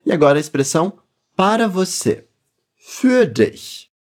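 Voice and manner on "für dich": "Für dich" with a pursed, rounded Ü; "Für dich" with a clear front rounded Ü; rounded umlaut Ü. Shown as a demonstration. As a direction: pout the lips on "Für". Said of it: "Capricha no biquinho".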